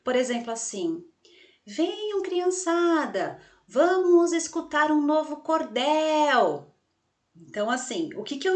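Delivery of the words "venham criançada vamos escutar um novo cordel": high, stretched mock shout to a crowd of children; pretend calling out. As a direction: call the kids over, drawing out the last syllable. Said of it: "Toda vez que você vai gritar uma palavra". (gritando de faz de conta, esticando a sílaba tônica)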